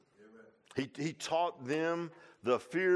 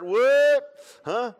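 mock surprise; 12 semitones higher, 16 dB louder than usual.

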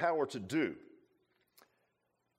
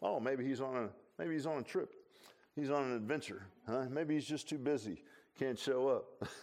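smart-alecky taunt; 4 dB quieter than usual. Retold or imitated. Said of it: "He even got kinda smart alecky".

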